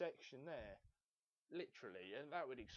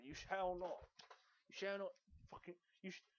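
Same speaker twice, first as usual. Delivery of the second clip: mock commandment; 2 semitones higher than usual. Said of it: "ten commandments or whatever".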